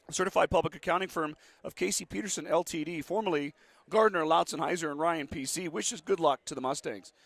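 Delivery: brisk, upbeat sponsor read; radio ad read. Acted. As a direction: read the ads quickly, like local radio. Reads sponsor ads between quarters.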